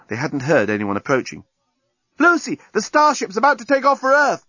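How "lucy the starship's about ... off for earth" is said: high, louder call from afar; shouting. A narrator's reading. Journalist calling Lucy from the breakwater, shouting high. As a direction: call out across the beach. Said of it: "shouting from the breakwater".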